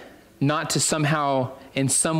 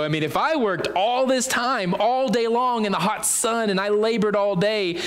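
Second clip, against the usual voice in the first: higher-pitched boastful worker; eager self-importance; 5 semitones higher than usual. Acted. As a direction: play up the long hard day, pitched up. Acting first workers' eager expectations.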